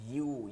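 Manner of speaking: ইউ like English "you", pressed from mid-tongue. Shown as a demonstration. Teacher likening the sound to English for students, pressed yu. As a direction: press the glide in ইউ. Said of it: "ইংলিশে ইউকে চাপ দিয়া".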